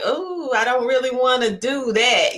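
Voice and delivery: lightly voiced "not really keen"; mock nonchalant. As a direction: imitate someone half-heartedly begging off. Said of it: "like, nonchalant".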